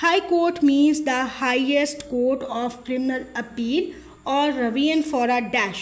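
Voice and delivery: each word of the legal statement read out very slowly; slow dictation read. Shown as a demonstration. Tutor reading an exam question to students, slow dictation.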